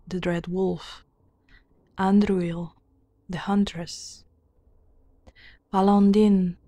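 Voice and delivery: measured, deliberate storybook reading; formal fantasy narration; lore narration. A narrator's reading. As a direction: read out old lore in even phrases. Reads game lore aloud.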